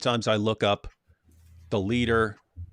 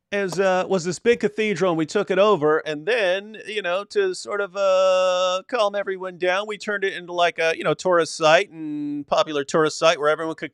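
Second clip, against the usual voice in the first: Erdogan; 5 semitones higher than usual. Acted. Host parodying the president announcing the mosque conversion, mocking high voice. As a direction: start breezy, swell into brash dismissal. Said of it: "Wasn't he the guy who ... said".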